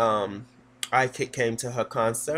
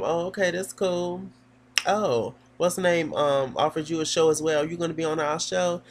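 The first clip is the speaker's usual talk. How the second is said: raised pitch, lightly imitating an excited girl; mild excitement; 6 semitones higher than usual. Twins asking Elsa about the show, mildly excited. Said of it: "They're all excited about it".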